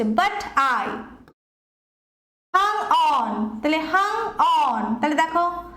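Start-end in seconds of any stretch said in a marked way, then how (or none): 0.0-0.9 "But" unstressed, "I" stressed. Shown as a demonstration. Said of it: "stress কম পড়ছে, I এ বেশি পড়ছে". 2.6-3.6 light "hung", drawn-out stressed "on". Shown as a demonstration. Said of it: "একটা unstress পাচ্ছি, একটা stress পাচ্ছি".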